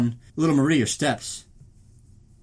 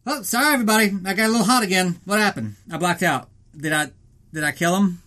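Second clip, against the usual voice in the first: crazed Drago whoop; 6 semitones higher, 4 dB louder than usual. Retold or imitated. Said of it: "And he's like".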